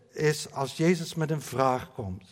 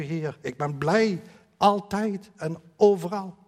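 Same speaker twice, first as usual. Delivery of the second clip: pretending all is fine. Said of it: "doen alsof".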